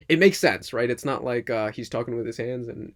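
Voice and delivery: ordinary talk, nothing marked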